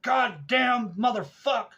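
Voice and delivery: high, loud, drawn-out imitated cursing; yelled retold swearing, stretched out; angry cussing. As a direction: imitate a fallen man howling curses. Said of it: "We could hear this cussing".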